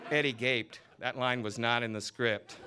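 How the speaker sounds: lively novel reading, voicing each character; story reading. A narrator's reading. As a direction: read the scene aloud with relish. Author reads novel scene aloud.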